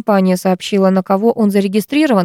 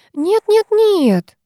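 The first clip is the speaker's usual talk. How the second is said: rattled off; 13 semitones higher, much slower than usual. A narrator's reading. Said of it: "затараторила невестка".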